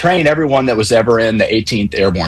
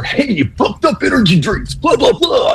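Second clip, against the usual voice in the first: cheesy radio voice; 12 semitones higher than usual. Retold or imitated. Caller mocking the ads on the podcast, cheesy radio announcer voice. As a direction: ham it up like a cheesy energy drink radio ad. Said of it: "really cheesy radio voice".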